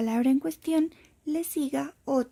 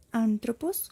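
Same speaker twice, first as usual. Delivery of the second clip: "antropos" with the stress on an; stress on first syllable; slower than usual. Shown as a demonstration. Teacher showing the acute accent as intensity, first syllable stressed. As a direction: say "antropos", leaning on the opening a. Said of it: "como en el acento agudo".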